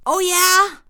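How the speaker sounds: high, loud mock roar; the king roaring back at the servant. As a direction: challenge him with a bellow. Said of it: "the king roars".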